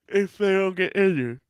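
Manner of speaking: high, exasperated mimicking of a caveat; mocking. Podcaster parroting the co-host's injury caveat, mocking and exasperated.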